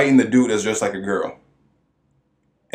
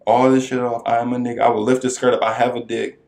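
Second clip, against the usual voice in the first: raised, heated voice insisting; indignant rant; 2 semitones higher, 3 dB louder than usual. Retold or imitated. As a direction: rant back, offended and loud. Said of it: "The dude's just like".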